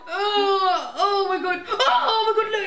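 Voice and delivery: laughing disgust. Real, not acted. Spider leg moves, she squeals.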